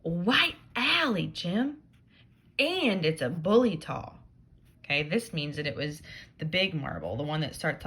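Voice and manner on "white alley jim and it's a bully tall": lightly voiced tempting Tom.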